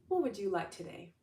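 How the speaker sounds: lightly voiced God, gentle question; God asking kindly. God offering the listener anything, lightly voiced. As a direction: ask it like a kind father. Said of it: "And God's like".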